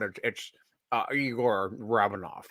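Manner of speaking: low, quiet Scottish-tinged Russian; Scottish Russian accent. Acted. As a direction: introduce a Russian captain in a deep Scottish burr. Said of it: "best Scottish Russian accent".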